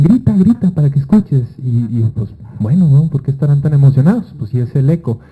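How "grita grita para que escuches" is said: urging friends. Retold or imitated. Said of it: "me decían".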